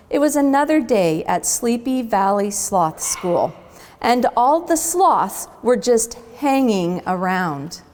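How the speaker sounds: unhurried storybook narration; picture book read-aloud; story reading. A narrator's reading. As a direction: read it gently to kids at the zoo. Reads story aloud to children.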